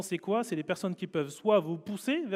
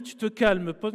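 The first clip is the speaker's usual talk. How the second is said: inner voice scolding; 3 semitones higher, 5 dB louder, slower than usual. Retold or imitated. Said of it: "Elle me dit".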